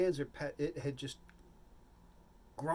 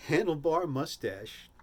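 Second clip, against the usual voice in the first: drawn out; 3 semitones higher, 6 dB louder, slower than usual. Acted. Punchline of beard description.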